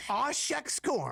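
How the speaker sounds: slow, playful country twang voice; mock country twang. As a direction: drawl it out like a country bumpkin. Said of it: "a bit of a country twang".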